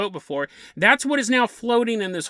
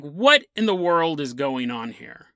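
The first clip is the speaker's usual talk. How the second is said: bewildered captain; 6 semitones lower than usual. Retold or imitated. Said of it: "the captain is like".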